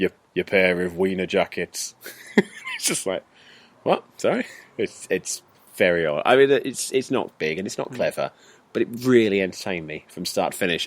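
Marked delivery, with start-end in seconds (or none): 0.0-1.9 put-on very thick, laid-on-thick Yorkshire accent. Quoting a film's SAS sergeant addressing Adam Sandler and his friend: thick Yorkshire accent. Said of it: "talks in a very thick Yorkshire accent".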